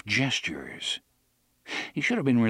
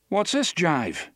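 suspicious Eddie; 7 semitones higher, slower than usual. Acted. Eddie balks at the gun belt.

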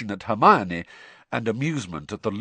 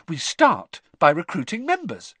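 happily; 8 semitones higher, 4 dB louder than usual. Acted. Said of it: "said Hermione happily".

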